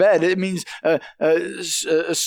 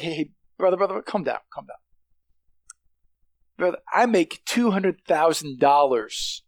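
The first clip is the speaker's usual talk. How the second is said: calm; 4 semitones lower than usual. Retold or imitated. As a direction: settle the other guy down, unbothered. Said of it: "he's as calm as can be".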